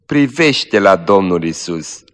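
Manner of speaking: slow, gentle plea full of pity; tender and pitying. Acted. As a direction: soothe her with love. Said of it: "pe un ton care arăta multă milă și iubire".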